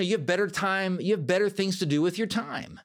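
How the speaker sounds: a lightly voiced dismissive inner critic. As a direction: coach voicing the listener's inner critic, dismissive. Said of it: "Or it says".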